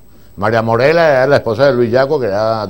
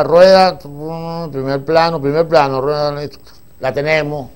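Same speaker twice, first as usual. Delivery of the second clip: director calling shots; 5 semitones higher, slower than usual. Retold or imitated.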